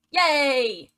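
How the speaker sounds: loud, drawn-out falling yay; mock cheer. Narrator celebrating the proposal she just accepts, mock cheer.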